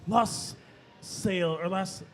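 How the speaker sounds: slow, drawn-out sultry narration; lightly voiced seductive read; sexy voice. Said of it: "Do it in your sexy voice".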